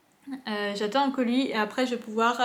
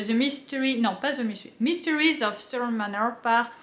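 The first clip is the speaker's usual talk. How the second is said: French-accented English. Real, not acted. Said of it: "mon accent anglais pourri".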